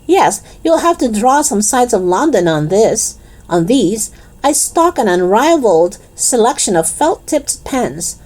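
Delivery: lightly voiced shopkeeper's sales patter; salesman shopkeeper Raj. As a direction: push the stock on a visitor. Voices Raj selling pens.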